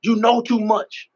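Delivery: slow, measured words with long pause; God's solemn answer. Retold or imitated. God answering a man who wants to cry, solemn. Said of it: "I just remember God saying".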